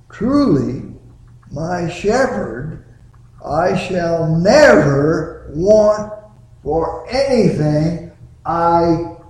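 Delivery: slow, with stress on truly and need; emphatic preaching. Shown as a demonstration. Preacher driving home the verse to his congregation, stressing truly. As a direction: lean hard on truly. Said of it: "I stress the word need for good reason".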